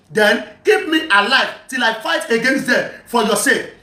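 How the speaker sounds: slow, measured reading of scripture; deliberate recitation of a religious text; reading aloud. Acted. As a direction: read the account out slowly, word by word. Reads the hadith again.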